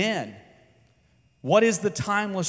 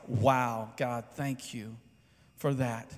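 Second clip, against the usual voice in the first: hushed, lower prayer of gratitude; awed thanks; 5 semitones lower, 5 dB quieter, slower than usual. Retold or imitated. Preacher recalling his awed private thanks to God, hushed gratitude. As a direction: softly thank God, amazed. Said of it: "it's like".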